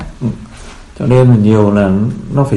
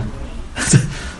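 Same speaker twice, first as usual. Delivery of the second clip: short, soft breathy laugh; amused chuckle; 9 dB quieter than usual. Real, not acted. Storyteller amused by the quoted question, soft chuckle. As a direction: let a small quiet chuckle slip out.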